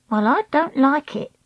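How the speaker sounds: Treacle voice. Acted. Treacle's voice in the story.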